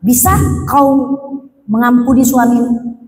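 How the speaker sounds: slow, weighty second asking; slow solemn repeat of the forgiveness question; slow deliberate repeat. Retold or imitated. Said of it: "saya tanya sekali lagi".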